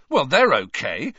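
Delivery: mild grumble, a touch angry. A narrator's reading. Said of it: "said Ron angrily".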